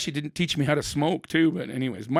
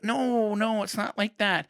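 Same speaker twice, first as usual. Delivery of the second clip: sheepish backpedal; 5 semitones higher than usual. Retold or imitated. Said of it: "I'm like".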